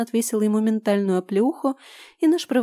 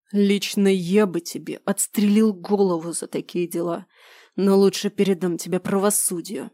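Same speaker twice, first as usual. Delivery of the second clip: angry hiss. Acted. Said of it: "злобно прошипел Гарс".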